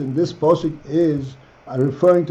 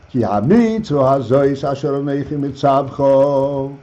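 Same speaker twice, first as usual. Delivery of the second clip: slow, measured reading of the Hebrew verse. Shown as a demonstration. Rabbi reading the verse to his students, slow and measured. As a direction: lay out each word of the verse slowly.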